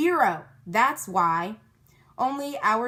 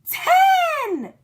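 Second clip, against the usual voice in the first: higher and louder each count; building shouts; 8 dB louder, much slower than usual. A narrator's reading. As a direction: count up to a scream. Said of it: "we shouted".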